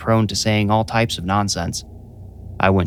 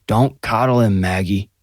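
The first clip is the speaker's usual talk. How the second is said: sneering. A narrator's reading. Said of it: "Grandpa sneered".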